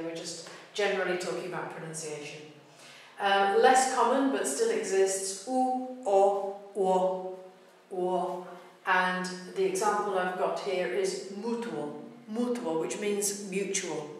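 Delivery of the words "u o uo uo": "u, o" said separately, then blended into one "uo"; vowels apart, then combined. Shown as a demonstration. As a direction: demonstrate U and O joining into "uo". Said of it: "uo being a combined single syllable sound".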